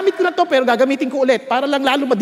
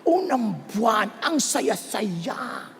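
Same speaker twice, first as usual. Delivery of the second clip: dreamy, slow and soft; 5 semitones lower, 7 dB quieter, much slower than usual. Acted. Wistful memory of early marriage.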